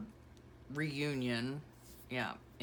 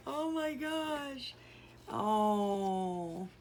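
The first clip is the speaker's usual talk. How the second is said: tender gush; 6 semitones higher, much slower than usual. Real, not acted. Looking at baby photos.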